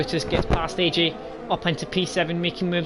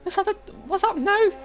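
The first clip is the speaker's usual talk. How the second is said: 1 surprised. Real, not acted. Surprise at a safety car.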